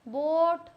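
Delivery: बोट like English "boat", as one option; variant pronunciation. Shown as a demonstration. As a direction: say बोट with a long "oh" vowel. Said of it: "क्या बोलते हो".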